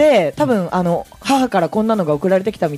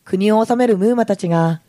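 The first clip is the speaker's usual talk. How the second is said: story narration. Acted. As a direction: read it like a picture book opener.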